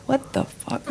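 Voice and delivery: breathless high whispered disbelief; stunned whisper. Retold or imitated. Retelling her reaction to her husband's colonic idea, whispered shock. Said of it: "I'm like".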